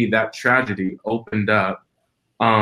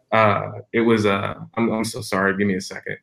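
fighting to keep from crying on air; real tears rising, words barely coming; holding back tears. Real, not acted. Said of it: "not trying to cry on air".

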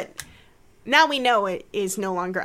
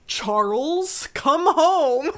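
lightly voiced eerie old man; spooky old man; 4 semitones higher, 4 dB louder, much slower than usual. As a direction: call him home, a little eerie. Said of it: "He goes".

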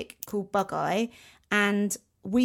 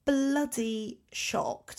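surprised; 6 semitones higher, much slower than usual. Real, not acted. Amazed at global listeners.

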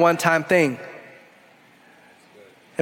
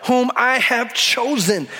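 voice from the cloud; 5 semitones higher, slower than usual. Acted. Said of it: "A voice came from the cloud saying".

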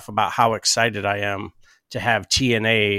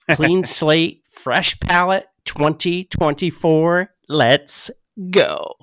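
excited; 7 semitones higher, 5 dB louder, slower than usual. Real, not acted. Hyped call for the new year.

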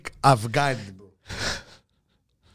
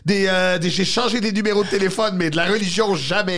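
higher-pitched incredulous protest, retold for laughs; mock indignant comeback; retold exasperated manager; 5 semitones higher than usual. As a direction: imitate a manager drawing the line, pitched up. Retells his manager's outraged reply.

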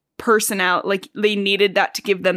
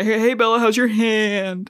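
sheepish and uncomfortable. Retold or imitated. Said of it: "sheepish and uncomfortable".

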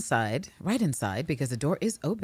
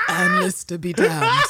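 put-on much higher, slow silly old-man voice; Charles voice; 5 dB louder, slower than usual. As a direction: ham up a squeaky old gent. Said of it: "now you got me doing it".

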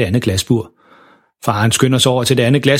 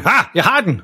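spillet udråb; 6 semitones higher than usual. Acted. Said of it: "så råber faren".

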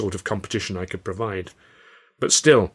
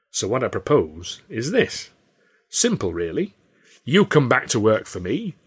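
put-on sly old showman voice; 3 semitones higher than usual. Carno proposes the deal.

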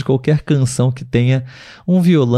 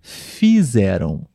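FIZERAM slowed, long open ZE falling away; stress on ZE; 3 semitones lower, much slower than usual. Shown as a demonstration. Teacher giving Rosa the correct conjugation, middle-syllable stress. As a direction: lean on ZE in fizeram. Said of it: "A conjugação certa seria".

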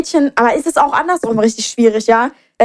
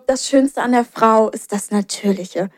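slow, soft mock-poetic quote; 2 semitones lower, 4 dB quieter than usual. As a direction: recite it like a cheesy compliment. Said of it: "er hat so richtig poetisch gesagt".

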